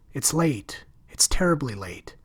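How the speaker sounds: hurried worried whisper; anxious whisper. Acted. Ella fretting that they'll be back, anxious whisper. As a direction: whisper it, afraid of being caught.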